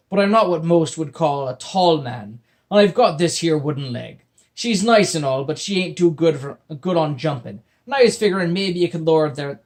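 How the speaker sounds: loud, rambling pirate; wheedling pirate. Acted. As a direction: coax the boy like a peg-legged pirate. Pirate explaining his wooden leg.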